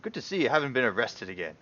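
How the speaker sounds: high stammering nervous greeting; flustered friendly guard, stumbling over words; nervous Ander. Acted. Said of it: "Ander turns around and says".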